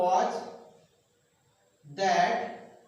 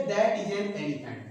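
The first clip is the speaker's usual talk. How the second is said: slow dictation; 2 semitones lower, much slower than usual. Shown as a demonstration. Teacher dictating example sentence.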